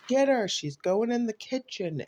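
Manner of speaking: high, loud panicked call; retold frantic yell. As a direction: yell the warning from another room. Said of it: "I hear yelling again".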